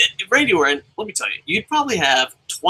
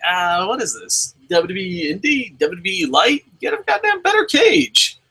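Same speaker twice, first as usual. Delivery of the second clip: mock disgusted complaint; 5 semitones higher than usual. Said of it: "I was like".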